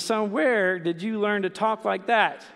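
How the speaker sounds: slow, stern question from a dad, with WHERE hit hard; a father demanding where his son learned that word. Retold or imitated. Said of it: "the dad spins around and says".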